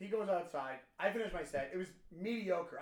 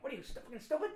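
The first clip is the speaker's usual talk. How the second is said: Goodfellas tough guy; 6 semitones higher than usual. Retold or imitated. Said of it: "my Goodfellas moment".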